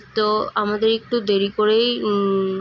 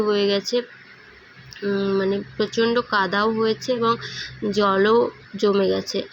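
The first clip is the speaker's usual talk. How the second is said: talking around a toothbrush; while brushing teeth. Real, not acted. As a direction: mouth full of toothpaste foam. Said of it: "brush করতে করতে".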